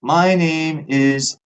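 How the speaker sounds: high, slow, over-clear voicemail greeting. Shown as a demonstration. Man demos how people leave a voicemail, high and slow. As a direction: leave a stiff, careful voicemail. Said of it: "the voicemail voice".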